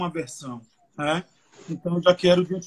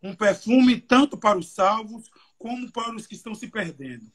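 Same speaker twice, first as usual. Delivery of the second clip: raised, slowed Bible reading; scripture reading; 3 semitones higher than usual. Acted. Preacher reading the verse aloud to young people, solemn reading voice. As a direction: read the verse out to the church, a little higher. Reads second Bible version.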